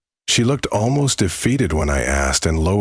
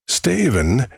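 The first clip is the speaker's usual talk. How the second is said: higher, gravelly witch call; 8 semitones higher than usual. Acted. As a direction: call his name like a witch. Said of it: "that same low and gravelly voice".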